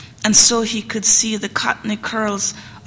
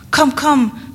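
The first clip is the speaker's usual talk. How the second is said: raised commanding call; 5 semitones higher, 4 dB louder than usual. Acted. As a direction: urge them on, louder. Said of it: "Miss Cora again".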